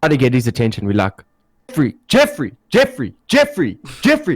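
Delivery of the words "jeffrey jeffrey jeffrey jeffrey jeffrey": rising calls getting higher; calling out. Retold or imitated. Calling zoned-out Jeffrey, rising urgent calls. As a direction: call his name more urgently each time.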